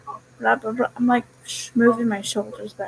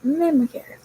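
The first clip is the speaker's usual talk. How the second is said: "memory care" again, pitched up and falling; memory care repeated higher; 5 semitones higher than usual. Shown as a demonstration. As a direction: stress "memory care" with a high start. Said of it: "And I work".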